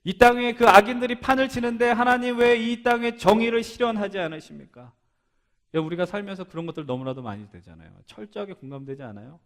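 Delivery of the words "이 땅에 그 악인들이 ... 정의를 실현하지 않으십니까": loud, high, insistent protest to God; acted aggrieved plea at raised pitch; confrontational outcry. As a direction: cry out and demand an answer. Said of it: "하나님께 따지는 거 아니에요".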